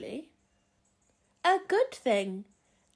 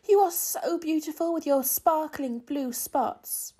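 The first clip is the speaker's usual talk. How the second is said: excited call; 6 semitones higher, 5 dB louder than usual. A narrator's reading. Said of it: "called Lucy".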